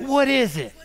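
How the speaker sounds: with excitement. Shown as a demonstration. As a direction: ask it like a thrilled kid. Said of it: "Everybody say it with excitement".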